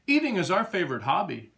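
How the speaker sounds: a pig boasting about eating; happy grunt. A narrator's reading. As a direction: gobble the words out like a happy pig. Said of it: "grunted Paul happily".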